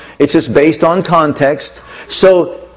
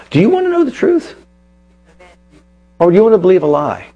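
sharply higher, fast rhetorical challenge; exasperated retort; 4 semitones higher, much faster than usual. Retold or imitated. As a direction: fire it back at the critics, high and quick. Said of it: "I'm like".

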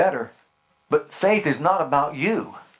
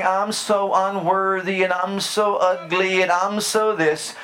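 mock unworthy plea; 4 semitones higher, slower than usual. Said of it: "And don't come saying".

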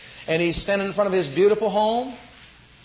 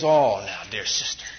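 lightly voiced polite refusal; proud brother; 11 semitones lower, slower than usual.

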